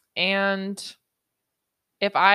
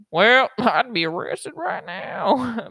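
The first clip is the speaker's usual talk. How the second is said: laughing; 5 semitones higher, 7 dB louder, slower than usual. Real, not acted. Laughing outburst.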